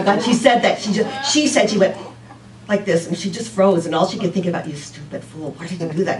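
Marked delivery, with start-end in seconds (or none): 4.7-6.2 muttering to herself. Retold or imitated. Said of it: "she kept talking to herself like this".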